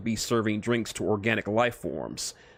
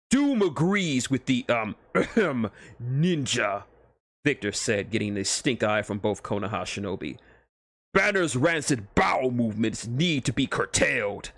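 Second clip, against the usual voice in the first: pompous armored tyrant, measured; Doom pronouncing judgment, grandly. Acted. Doom's voice in the story.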